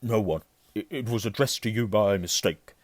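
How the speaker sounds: loud, stumbling brush-off; curt. A narrator's reading. Uncle fobs off nephew about letter, curtly. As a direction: dismiss it shortly. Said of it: "said Uncle Vernon shortly".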